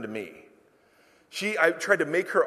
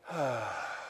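heavy sigh; 5 semitones lower, 10 dB quieter than usual. Shown as a demonstration. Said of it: "The heavy sigh".

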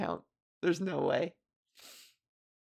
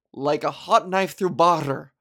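imitating a quirk; 4 dB louder than usual. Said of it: "he always said it like that".

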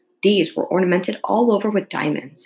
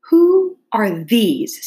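imperious demand; 5 semitones higher, 5 dB louder, much slower than usual. A narrator's reading. Queen demands about the gardeners.

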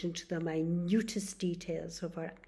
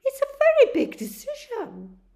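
higher, louder nurse voice; nurse questioning; 15 dB louder than usual. Acted. Nurse asks Charlie if he is sure, higher. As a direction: gently check his decision.

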